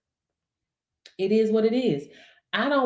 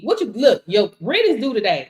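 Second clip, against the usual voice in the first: normal talking voice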